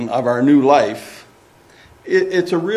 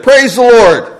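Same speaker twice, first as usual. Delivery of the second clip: high, loud shout of praise; joyful shout; 8 semitones higher, 8 dB louder than usual. Acted. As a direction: proclaim it at full voice. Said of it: "And she shouted".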